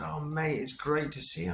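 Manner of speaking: lightly imitated Cockney pal; Gary's Cockney twang. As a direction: greet an old mate in mild Cockney. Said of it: "with his sort of Cockney twang".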